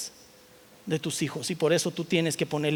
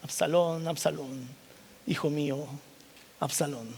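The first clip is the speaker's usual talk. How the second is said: softer, mournful lament; a hint of broken grief; quiet sorrow. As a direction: murmur the son's name in grief. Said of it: "la tristeza de David".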